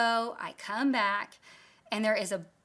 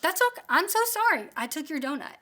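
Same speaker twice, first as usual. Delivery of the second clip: smart husband way; 3 semitones higher, faster than usual. Retold or imitated. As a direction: soothe her like a husband who knows he's in trouble. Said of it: "in a really smart husband way".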